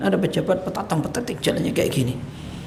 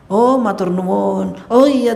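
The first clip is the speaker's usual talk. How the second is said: slow, gracious acceptance of advice, lightly acted; polite thanks; 3 semitones higher, 4 dB louder, slower than usual. The answer a humble man would give, gently polite. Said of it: "jawabnya bukan".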